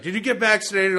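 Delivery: high, loud mock interrogation; imitated angry boss. Boss grilling sick employee, loud imitated outrage.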